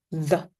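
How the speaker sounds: "the" said slowly with a voiced th, tongue between the teeth; voiced th demo in "the". Shown as a demonstration. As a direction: buzz the th in "the" with the voice on. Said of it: "use our voice to say the".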